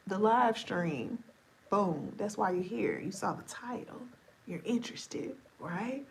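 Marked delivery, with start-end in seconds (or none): 4.5-6.0 whisper. Real, not acted. Whispered teasing aside.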